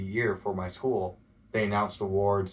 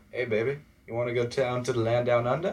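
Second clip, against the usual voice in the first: cheesy pickup line; 3 semitones higher than usual. Pretend. Joking with the host about a fake Australian pickup line, hammed-up flirt. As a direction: lay on a corny flirt, tongue in cheek. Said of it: "a perfect pickup line".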